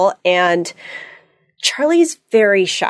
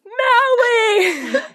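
screamed name. Retold or imitated. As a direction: scream it at her, no words around it. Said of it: "It was just".

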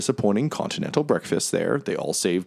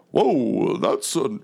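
lightly voiced character, slightly raised; Mahadi's voice; 3 semitones higher, much slower than usual. Game master voicing the mammoth slips into devil's voice. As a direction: start in the wrong character's voice. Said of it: "that's his voice".

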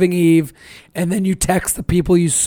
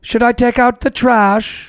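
slow, higher mock-British voice; British accent; 4 semitones higher, slower than usual. Comic imitating a British kid saying mundane things, in a British accent. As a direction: draw it out in a put-on British accent. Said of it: "I have a great accent".

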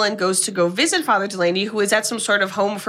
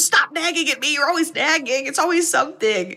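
high, mildly raised mock snap; retold angry yell; 6 semitones higher than usual. George yelling at his wife Kathy, mock angry outburst. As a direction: snap back like a cornered husband. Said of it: "George screams".

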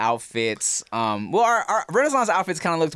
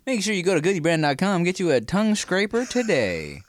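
ad read; 3 semitones higher than usual. Acted. Jokey brand-deal ad read.

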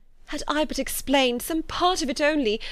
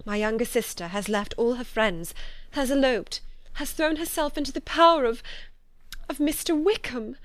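higher, anguished voice, building louder; distressed confession; 5 semitones higher, 3 dB louder than usual. A narrator's reading. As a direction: confess dreadful news in mounting despair. Tearful confession of dreadful family news.

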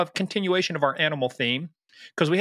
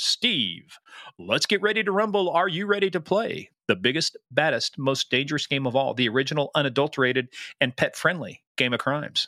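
booming announcer hype; monster truck ad. Acted. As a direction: sell it like a monster truck rally. Hyped show intro announcement.

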